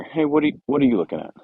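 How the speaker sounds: lightly voiced ornery mare, pitch jumps up on hey; lead mare again. Trainer imitating the lead mare at his horse, mild mock scolding. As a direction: challenge him like the boss mare would. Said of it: "it's like that lead mare".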